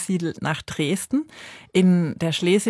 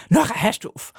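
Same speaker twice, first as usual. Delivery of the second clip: higher, mock-scolding parent; 4 semitones higher than usual. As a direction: imitate parents telling the child to stop. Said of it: "sie haben dann natürlich immer gesagt". (gespielt ermahnende Eltern, höher)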